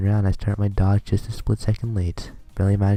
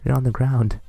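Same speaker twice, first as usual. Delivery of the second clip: higher, scolding schoolgirl voice, fired up; angry sister; 5 semitones higher than usual. Acted. Angry twin yells at Okazaki over crying sister in higher scolding voice. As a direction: tear into him for making her sister cry.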